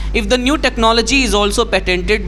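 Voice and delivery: confident model read-aloud; read-aloud demo. Shown as a demonstration. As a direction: read each sentence fluently to the full stop. Teacher reads next passage aloud.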